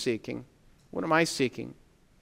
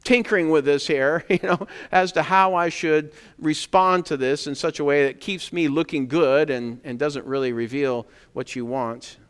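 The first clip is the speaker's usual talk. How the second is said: hammed-up evasive waffling; evasive hedging. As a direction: play the squirming evader stalling for time. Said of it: "And they're like".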